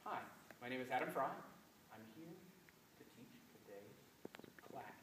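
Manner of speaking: rallentando then accelerando, fading on class; phrase it like a musical line; shaped musical phrase. Shown as a demonstration. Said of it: "What did I do with that one?".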